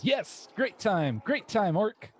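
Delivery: high, slow crowd roar. Acted. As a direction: bellow it like a cheering mob. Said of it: "the crowd roars and says".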